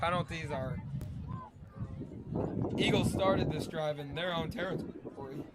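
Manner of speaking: talking through hiccups. Real, not acted. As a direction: speak between small hiccups. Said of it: "I'm having the hiccups a little bit".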